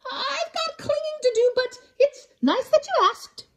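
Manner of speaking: high, sweet little voice declining; polite koala. Acted. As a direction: decline kindly.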